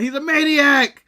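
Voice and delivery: hammed-up shouting in mock alarm; imitating Jericho yelling. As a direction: bellow it like a frantic wrestler pointing at a maniac. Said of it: "Jericho's yelling".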